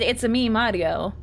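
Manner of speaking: lightly voiced mock Italian catchphrase; Mario. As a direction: quote it with just a hint of cartoon Italian. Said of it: "you had come up and you had said".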